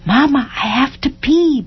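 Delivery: put-on young boy begging his mother; little boy. A narrator's reading. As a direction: plead like a small boy needing the toilet. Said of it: "Ben said".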